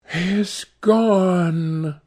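slow, wistful murmur; sad murmur. A narrator's reading. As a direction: let it fall away slowly, sadly. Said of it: "murmured Sibyl sadly".

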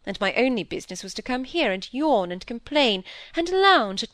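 animated aristocratic lady owning up; lively, frank peer's daughter; defiant lady visitor. Acted. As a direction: confess briskly and without shame. Lady Harriet confesses her lies.

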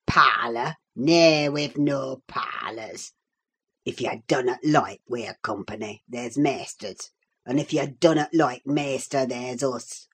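put-on gruff old servant scoffing at the guest; surly old Yorkshireman. Old servant brushing off the visitor, gruff Yorkshire scorn.

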